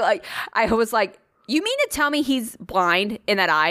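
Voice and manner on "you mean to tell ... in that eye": higher-pitched, incredulous re-enactment; replayed stunned question, lifting at the end; retold disbelief. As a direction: demand confirmation as if you can't believe it. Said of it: "I said it just like that".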